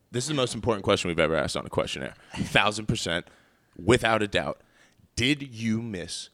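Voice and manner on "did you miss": word censored with bleep. Real, not acted. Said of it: "It got bleeped".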